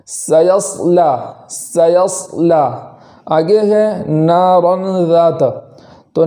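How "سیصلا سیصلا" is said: slow سیصلا with ص full but from the sin's place; full ص without lips; slow correct tajweed; correct heavy sad. Shown as a demonstration. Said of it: "اس طریقے سے پڑھیں گے".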